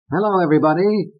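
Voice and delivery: high, fast showbiz greeting; a mock starlet gushing hello; Pat impression. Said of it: "Pat said".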